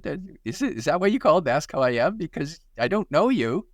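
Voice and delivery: sharp, quick challenge to a stranger; blunt challenge. Retold or imitated. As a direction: call out the caller, brisk and pointed. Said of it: "I said".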